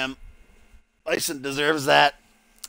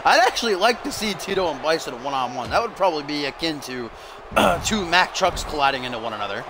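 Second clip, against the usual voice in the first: lively wrestling commentator; play-by-play; 3 semitones higher than usual. Pretend. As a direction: call the match as it unfolds.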